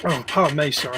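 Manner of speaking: speaking between hiccups; hiccuping. Real, not acted. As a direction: hiccup interrupting the words. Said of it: "I keep hiccuping".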